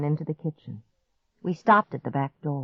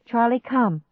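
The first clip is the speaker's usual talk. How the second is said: raised, anxious coaxing; pleading; 7 semitones higher than usual. A narrator's reading. Girl coaxes stubborn dog, pleading. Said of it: "I pleaded".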